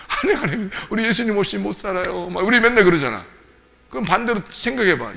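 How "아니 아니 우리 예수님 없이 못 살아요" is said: higher, flustered protest in imitation; 주눅든 대답. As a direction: hurriedly deny it, playing the cowed believer. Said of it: "우리는 맨날 그러죠". (높은 소리로 주눅들어 매달리는 척)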